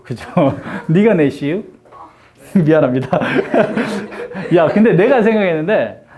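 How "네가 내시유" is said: joking Chungcheong dialect question. Acted. Teacher punning on bless you, in Chungcheong dialect. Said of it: "충청도 애들은 잘못 발음하죠".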